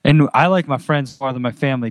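blurted out before thinking; blurted confession. Real, not acted. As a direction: let it slip out bluntly. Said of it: "Did I say that out loud?".

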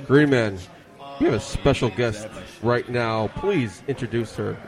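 sloppy tipsy host voice, words running together. Real, not acted. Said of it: "talking like a drunk asshole".

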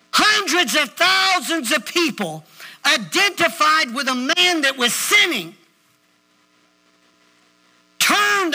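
slow, weighty preacher's declaration; punched words with big pauses between phrases; emphatic preaching. Real, not acted. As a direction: drive each phrase home to the congregation. Preaches with force to congregation.

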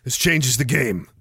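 dropped low and slow; low, grave repeat. Acted. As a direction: say it low and slow, as a solemn verdict. Repeats it lower for dramatic effect.

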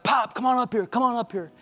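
high, loud holler across the church; hollered call. Retold or imitated. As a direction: call Pop up from the pulpit, full voice. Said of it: "I hollered out".

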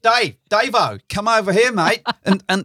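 hammed-up Aussie office bloke shouting across the room; terrible Aussie accent. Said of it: "terrible Aussie accent impression".

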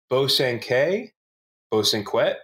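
«Bosanquet» slowly as bo-san-kay, then bo-san-kwet; unsure pronunciation. Shown as a demonstration. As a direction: try «Bosanquet» both ways. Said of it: "I don't know how".

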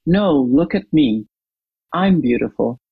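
lightly voiced mother claiming the attention for herself; a hint of a grown woman's dismissive reply; mother's retort. Mother's retort in retold story.

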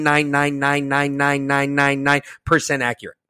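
one long, monotone string of nines; milk the exaggeration. Boasting whiteboard accuracy.

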